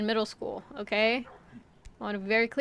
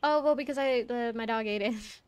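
student making excuses. Retold or imitated. Student explaining missing homework to the teacher, stumbling excuse. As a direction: act out a pupil fumbling for an excuse.

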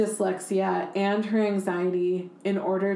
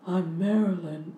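Marilyn Monroe voice. Retold or imitated. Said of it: "she talks in this, like, very low, husky, breathy voice".

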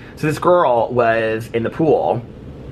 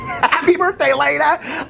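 much higher, slow sing-song cheer; playful exclamation; much slower than usual. Acted. Vlogger showing viewers the new hat, singsong cheer.

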